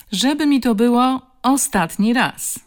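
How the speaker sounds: loud, high-pitched final warning; stern warning. A narrator's reading. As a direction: lay down the law to the bully. Woman warns the bully.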